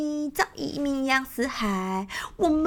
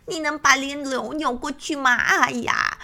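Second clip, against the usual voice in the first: fast, squawky bird teasing; a hen coaxing with sly cackles; lightly voiced cackling bird; faster than usual. Lakanga tricking the crocodile again, light squawk.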